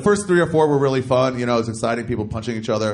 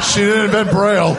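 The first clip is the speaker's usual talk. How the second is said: much higher, wheezing with laughter; helpless laughter; 8 semitones higher, 5 dB louder than usual. Real, not acted. Comic repeating the host's joke, helpless laughter. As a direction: repeat it while falling apart laughing.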